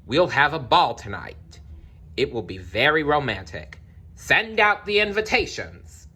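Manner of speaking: excited king. Acted. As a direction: announce it like a lightly voiced excited king. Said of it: "shouted the king".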